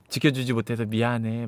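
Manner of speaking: low, soft dying father's voice; subdued acted regret; hushed apology. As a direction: apologise faintly, pitched low.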